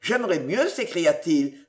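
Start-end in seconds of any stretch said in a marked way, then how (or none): 0.0-0.7 hateful. Acted. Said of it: "de l'accent de la haine la plus atroce".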